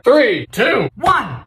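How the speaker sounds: ordinary talk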